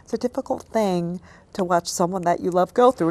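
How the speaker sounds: whispered, fighting back tears; real tears held back in a whisper; tearful whisper. Real, not acted. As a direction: choke the words out under your breath. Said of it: "Now I need a tissue".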